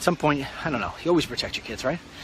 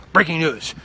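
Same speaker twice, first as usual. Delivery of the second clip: news anchor voice. Retold or imitated. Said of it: "imitating news anchor".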